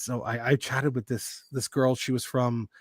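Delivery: usual speaking voice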